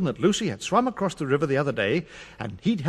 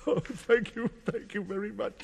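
much softer grateful voice; grateful quiet; 3 semitones higher, 8 dB quieter than usual. Acted. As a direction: thank them in a hush. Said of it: "said the policeman".

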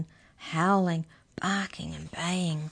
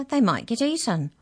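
gasping; 6 semitones higher, 4 dB louder than usual. Acted. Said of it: "gasped Arthur".

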